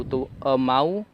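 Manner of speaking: अमाउ joined slowly from its sounds; slow blend. Shown as a demonstration. Teacher blending अमाउ for students. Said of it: "फिर आउ".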